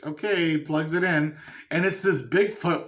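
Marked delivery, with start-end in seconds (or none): 0.0-0.6 slow, reluctant agreement; imitating someone hesitantly going along. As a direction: draw it out as if unsure. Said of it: "he's hesitant about it".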